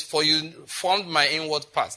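unhurried scripture line with weight on formed; slowed down. Shown as a demonstration. Preacher slowing down to read the verse to the church. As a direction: read slowly, leaning on formed. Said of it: "let me slow down in verse thirteen".

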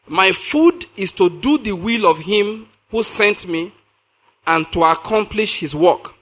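slow, weighty scripture line; slow emphatic reading. Shown as a demonstration. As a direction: make them listen, word by word. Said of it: "now listen".

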